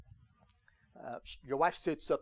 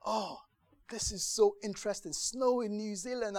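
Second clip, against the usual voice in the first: lightly mock-interested, pitched up; a touch of bored politeness, higher; polite interest; 7 semitones higher than usual. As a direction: feign polite curiosity about the news. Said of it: "you're like".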